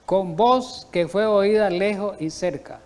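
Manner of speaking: slow, deliberate quotation; measured, drawn-out reading. Real, not acted. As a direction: read it out slowly and deliberately. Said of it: "Voy a leerlo despacio".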